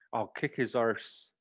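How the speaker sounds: I'll kick his arse, with arse said as a long broad ar; slow and clear, say arse like an old-fashioned res expression; arse not ass. Shown as a demonstration. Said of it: "can we change ass to arse".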